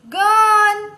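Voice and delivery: loud, high, drawn-out word; reading out loud. Shown as a demonstration. Teacher models a word for children, loud and drawn out. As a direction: sound it out loudly on a held high note. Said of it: "વાંચશો ને જોરમાંથી".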